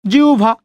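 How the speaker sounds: জিউভা said as জি-উ-ভা, উ and ভ separate; জিউভা pronounced. Shown as a demonstration. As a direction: say জিউভা with a clear উ before ভ. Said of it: "উ এবং ভ". (জিউভা উচ্চারণ, উ আর ভ আলাদা)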